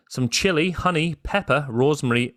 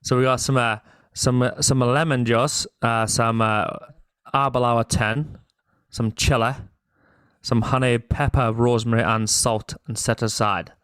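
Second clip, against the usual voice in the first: attempted Scottish accent; 3 semitones lower than usual. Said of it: "in a thicker Scottish accent".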